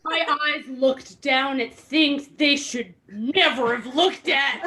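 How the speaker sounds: slow, words breaking into laughter; can't keep it together; laughing while reading. Real, not acted. Reading the awkward line to friends, laughing.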